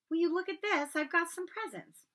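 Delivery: high, amazed and delighted; can't believe his luck; excited. A narrator's reading. Harry thrilled by presents.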